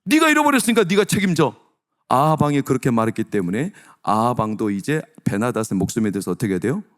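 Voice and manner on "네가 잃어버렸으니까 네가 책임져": higher, louder commanding king's ruling; royal verdict. Retold or imitated. King Ahab ruling on the soldier, louder and higher. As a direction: pronounce judgment like a stern king.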